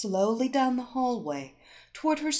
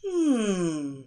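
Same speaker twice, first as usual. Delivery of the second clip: slightly surprised; 3 semitones lower than usual. Acted. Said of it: "in a slightly surprised tone".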